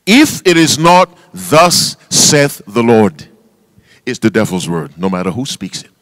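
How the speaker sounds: slow and deliberate, weighting Thus saith the Lord. Shown as a demonstration. Preacher restates his point to the congregation slowly. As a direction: start again and lay each phrase down carefully. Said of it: "Let me start again".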